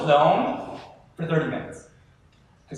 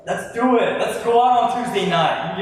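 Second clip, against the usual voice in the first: eager invite; 5 semitones higher, 4 dB louder than usual. Retold or imitated. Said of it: "you're like".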